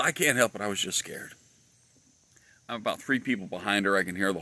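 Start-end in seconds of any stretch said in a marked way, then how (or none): 0.0-1.3 mock-helpless, pitched up; nervous lady passenger. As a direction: imitate a nervous woman protesting. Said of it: "was quite nervous".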